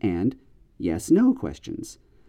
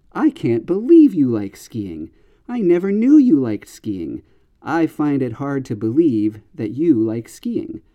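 disbelief; 3 dB louder than usual. Shown as a demonstration. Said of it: "your surprise, or maybe even your doubt".

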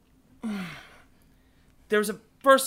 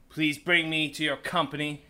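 building to a loud proclamation; 5 dB louder than usual. Retold or imitated. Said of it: "And he said".

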